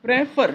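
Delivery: प्रेफर said as two distinct beats, pre-fer; प्रेफर parted into pre and fer for learners; two syllables shown. Shown as a demonstration. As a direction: sound out both syllables of प्रेफर. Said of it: "प्रेफर has two sounds".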